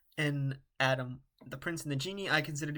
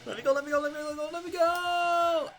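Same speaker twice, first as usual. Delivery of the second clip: begging high voice; 5 dB louder, faster than usual. Acted. Character begging to be released.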